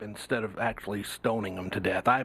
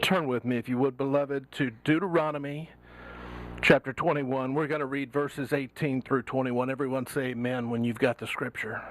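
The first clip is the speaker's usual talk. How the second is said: preacher voice. Pretend. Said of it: "can I use my preacher voice".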